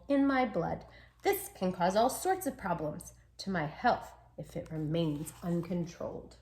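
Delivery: gentle storybook reading as the pup; lightly voiced pup narrating; reading to children. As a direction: read it like a bedtime story. Reads dog's story to children.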